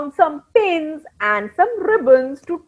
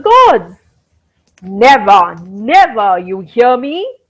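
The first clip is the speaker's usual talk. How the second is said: low, louder growling defiance; growled; 4 semitones lower, 4 dB louder than usual. Acted. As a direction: growl it at the world, lower and firm. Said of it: "He growled".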